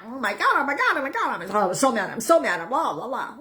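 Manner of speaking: high, hammed-up frantic rant; imitating someone stewing and fuming; mock frantic venting. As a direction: act out a spiraling panic. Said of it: "then, ah".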